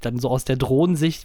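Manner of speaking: ordinary talk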